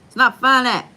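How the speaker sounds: playful indignant cry; mock outburst. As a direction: blurt it out in playful exasperation. Repeats the complaint, louder.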